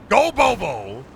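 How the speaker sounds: high rallying call; playful yelling. Pretend. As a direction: holler it like a cheer. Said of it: "I'm just yelling".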